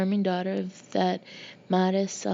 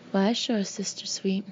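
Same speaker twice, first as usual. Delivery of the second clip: playful Southern reply; lightly hammed Southern accent; mock Southern accent. Brother answers in the same Southern act.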